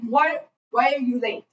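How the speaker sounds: put-on middle-aged German professor's accent; thick German accent. German painting professor questions a late student, thick accent. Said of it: "saying this was the thickest German accent".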